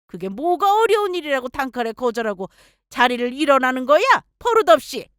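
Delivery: mother-in-law berating her daughter-in-law for rudeness. Acted. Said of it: "한껏 높아진 억양으로 저에게 역정내셨습니다".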